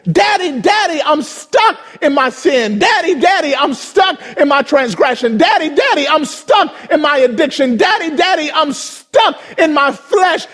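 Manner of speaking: the world begging its father for rescue; crying out to God. Retold or imitated. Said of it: "screaming to heaven".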